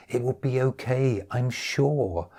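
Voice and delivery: soft reassurance; calm her gently; reassuring. A narrator's reading. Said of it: "I reassured her".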